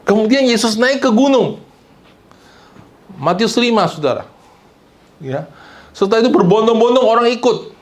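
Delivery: high, driving pulpit storytelling; impassioned preaching. Real, not acted. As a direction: preach the scene to a crowd with force.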